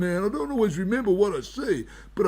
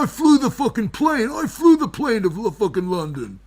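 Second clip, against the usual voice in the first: high boastful wizard; 5 semitones higher, 4 dB louder than usual. Acted.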